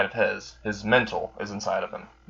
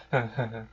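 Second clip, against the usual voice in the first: soft amused laugh; 6 dB quieter than usual. Acted. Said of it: "he's literally laughing".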